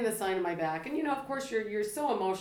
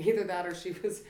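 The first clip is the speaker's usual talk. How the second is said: laughing; 5 dB louder than usual. Real, not acted. Joke after emotional story.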